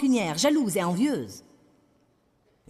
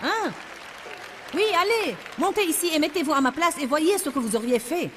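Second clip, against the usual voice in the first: challenging retort; 4 semitones higher than usual. Real, not acted. Challenging critics of the offering.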